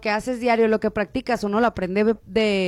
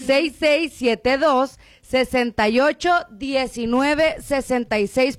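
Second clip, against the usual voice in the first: phone number read out slowly and deliberately; slow down so listeners can note the number; measured, drawn-out digits; slow repeat; slower than usual. Shown as a demonstration. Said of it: "Se los vuelvo a repetir".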